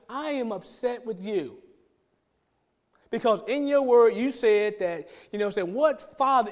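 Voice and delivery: mildly indignant retold complaint; upset with God. Man alone in the car complaining to God, mildly upset. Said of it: "I was upset with God".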